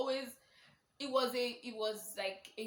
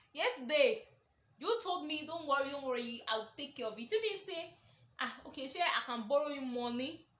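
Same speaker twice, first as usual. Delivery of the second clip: higher and louder, a touch exasperated; indignant retort; 4 semitones higher, 4 dB louder than usual. Retold or imitated. Reminding her friend he promised to pay, indignant. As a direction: throw his words back at him.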